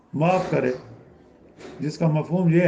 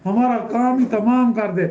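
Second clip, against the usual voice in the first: desperate plea; 5 semitones higher than usual. Retold or imitated. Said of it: "اس کو کہیں گے".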